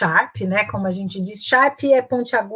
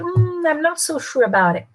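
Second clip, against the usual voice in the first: hesitant hum, then slow, higher-pitched polite doubt; softening intonation; 6 semitones higher than usual. Shown as a demonstration. Teacher showing how to disagree politely, hesitant doubtful intonation. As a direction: draw out a doubtful "Hmm" and disagree gently. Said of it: "Depende da entonação que você dá".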